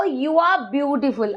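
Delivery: very slow, word by word; slow model sentence. Shown as a demonstration. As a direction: spell it out slowly for learners. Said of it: "teacher models English sentence". (धीरे-धीरे, एक-एक शब्द)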